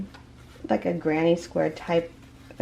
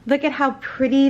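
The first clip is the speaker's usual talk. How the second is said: excited shaking; 6 semitones higher than usual. Real, not acted. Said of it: "I'm, like".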